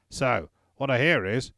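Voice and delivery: put-on drunk slurring; slurred drunk speech. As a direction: slur the words like a drunk. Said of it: "Wallace slurred his words".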